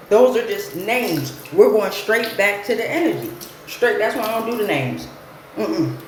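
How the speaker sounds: talking while brushing teeth; brushing with electric toothbrush. Real, not acted. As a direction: mouth full of toothbrush. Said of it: "Excuse me, I'm brushing my teeth".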